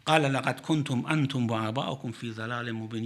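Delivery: fast, fluent Quranic recitation. Acted. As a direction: chant the verse briskly, reverently.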